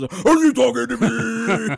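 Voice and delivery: tough guy challenge; De Niro voice. Acted. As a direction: Taxi Driver menace. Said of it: "I was supposed to start talking".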